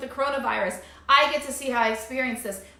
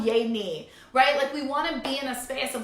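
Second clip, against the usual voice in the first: ordinary talk, nothing marked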